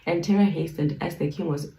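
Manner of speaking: measured, formal Bible reading; scripture reading. Acted. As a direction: read the old text with solemn care. Resumes reading from verse.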